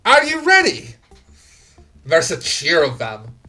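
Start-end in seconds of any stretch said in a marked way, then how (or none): 0.1-0.9 high, loud rabble-rousing speech, building to a roar; rallying gang boss. Acted. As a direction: whip the crowd up like a gang leader before a purge. Gang boss rallying his crew.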